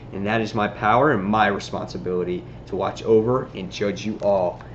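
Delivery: low, quiet threat that sinks as it goes; lightly voiced cold judge speaking down; menacing vigilante. Spider-Man warns the corrupt CEO, low and menacing.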